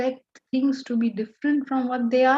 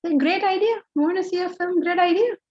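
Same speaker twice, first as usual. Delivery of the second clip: higher, bright encouraging reply; eager supportive husband; 5 semitones higher, faster than usual. Retold or imitated. Husband answering his wife's film wish, eager. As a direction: cheer her plan on like a keen husband. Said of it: "you say".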